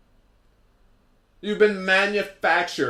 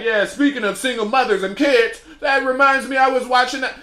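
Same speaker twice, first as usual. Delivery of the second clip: mocking the couple; 4 semitones higher than usual. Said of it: "they're like".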